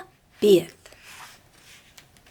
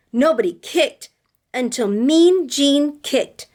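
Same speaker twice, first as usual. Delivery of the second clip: slow, sing-song read-aloud; reading to children; slower than usual. A narrator's reading. Teacher reading a picture book to her class, sing-song. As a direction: read it with rhythm for little listeners.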